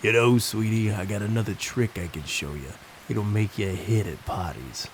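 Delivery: put-on a creepy clown's thick New York accent, coaxing; sweet-talking a child in a New York accent. Clown luring the little cousin away, in a thick New York accent. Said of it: "in his thick New York accent".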